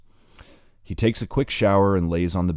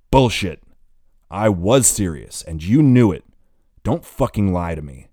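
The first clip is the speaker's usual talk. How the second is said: much louder, furious and accusing; angry yelling; 3 semitones higher, 9 dB louder than usual. Acted. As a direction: shout her lie back at her. He yells at lying girlfriend.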